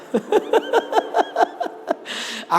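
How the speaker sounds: real high-pitched breathy laugh; long giggle trailing away. Real, not acted. Preacher laughs at forgetting his words, real high laughter. Speaker amused at own lapse.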